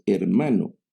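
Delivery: teacher reading the vocative aloud to students, hermano then a brief pause; pause after hermano. Shown as a demonstration. Teacher shows the comma pause after hermano. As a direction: say hermano, then hold a small pause before going on. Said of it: "y una pequeña pausa".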